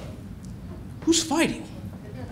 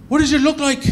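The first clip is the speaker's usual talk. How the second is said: puzzled bouncer; 8 semitones higher, faster than usual. Retold or imitated. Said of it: "And he goes".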